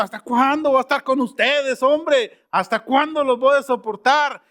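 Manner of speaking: imagined Jesus losing patience with his disciples; exasperated Jesus. Retold or imitated. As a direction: sigh it out like a tired teacher. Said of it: "Me imagino aquí Jesús así diciendo".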